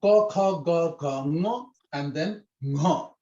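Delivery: Ko, kha, ga, ga, ngo recited syllable by syllable, ngo drawn out slowly; teacher drilling the letter row; reciting the consonant row. Shown as a demonstration. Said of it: "So this is how you pronounce it".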